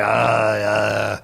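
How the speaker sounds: put-on low, drawn-out German-accented hesitation; German accent imitation. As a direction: imitate an old German labman's droning "uh". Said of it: "he's a German accent".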